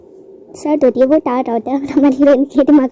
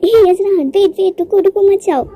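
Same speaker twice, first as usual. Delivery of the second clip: higher, louder call to stop him; calling after him; 7 semitones higher, 4 dB louder than usual. A narrator's reading. Heroine calling after the hero as he runs off: louder, higher plea. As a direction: call out, wait don't go.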